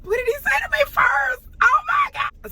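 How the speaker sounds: exasperated outburst. Real, not acted. Exasperated recalling the encounter.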